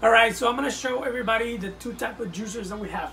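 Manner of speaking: loud hammed-up infomercial pitchman. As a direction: sell juicers like a TV ad. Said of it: "infomercial guy".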